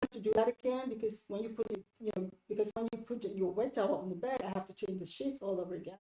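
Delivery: mild, tactful complaint; gentle request. Acted. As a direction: ask gently, trying to help. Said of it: "Explain to them, make it about you trying to help".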